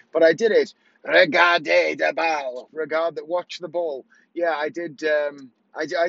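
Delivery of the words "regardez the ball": slow, put-on French accent, showing off the trick; pidgin French. Shown as a demonstration. Magician showing the trick to his French audience, in a slow put-on French accent. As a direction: Regardez de bal, drawn out in a stage French accent. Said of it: "pidgin French".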